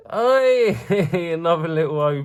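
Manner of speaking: a sudden high, loud hey; excited shout. Real, not acted. Finding another one in the box, an excited shout. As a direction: shout it out in pure delight.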